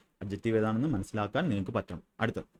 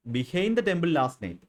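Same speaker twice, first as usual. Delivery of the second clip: slow dictation; 5 semitones higher, much slower than usual. Shown as a demonstration. Teacher reading an example phrase to students, slow and clear. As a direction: read very slowly, each word apart.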